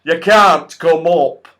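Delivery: loud, slow, odd goblin voice; smug goblin. Acted. Goblin tells Joe the tree is theirs now, slow and smug. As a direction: lay claim to the tree, slowly and smugly.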